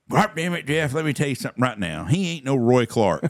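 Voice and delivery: imitating dad. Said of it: "my dad's exact words were".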